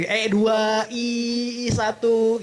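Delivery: drawn-out, over-articulated "E" and "I"; mouth exercise vowels. Shown as a demonstration. Coach showing finger-width drill, exaggerated vowels. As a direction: hold "I" long and sustained. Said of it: "Kita senam mulut dulu".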